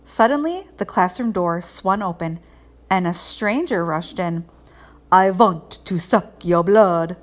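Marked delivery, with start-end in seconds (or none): 5.1-7.2 slow, looming vampire voice, pushed out loud; spooky vampire. Acted. Costumed stranger scaring the class, slow loud vampire voice. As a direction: drag each word out like a hungry vampire.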